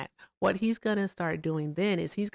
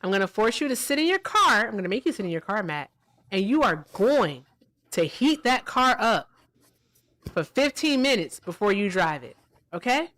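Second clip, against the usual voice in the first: forceful; 3 semitones higher, 5 dB louder than usual. Pretend. Mock threat to force Matt.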